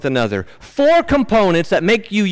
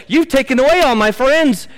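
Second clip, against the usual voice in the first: higher, louder pleading lament, falling at the end; voicing the psalmist; 9 semitones higher, 4 dB louder than usual. Preacher voicing the lonely psalmist, mildly anguished. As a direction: let the loss spill out of the words.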